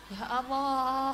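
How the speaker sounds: ordinary talk, nothing marked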